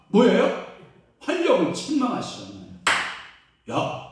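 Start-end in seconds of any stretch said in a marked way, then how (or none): 3.7-4.0 loud commanding rebuke; short, forceful mock telling-off; acted rebuke. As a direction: order the storm to be still. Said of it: "하고 막 책망해 주시잖아요".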